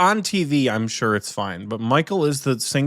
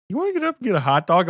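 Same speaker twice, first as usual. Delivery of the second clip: frat bro; 7 semitones higher, much faster than usual. Retold or imitated. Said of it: "he's like".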